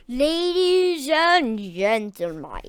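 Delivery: slow, high mouse squeak; squeaky mouse. A narrator's reading. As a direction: squeak it out like a tiny showman. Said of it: "he squeaked".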